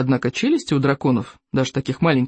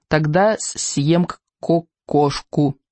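stammering little dragon; much slower than usual. Acted.

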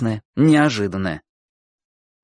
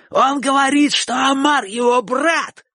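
high, indignant tattling cry; complaining, irritated shout; 13 semitones higher than usual. A narrator's reading. Bocho complains to the boys about Chik, shouting. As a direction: report it to the gang in protest. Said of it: "крикнул Бочо, как бы отчасти жалуясь и раздражаясь".

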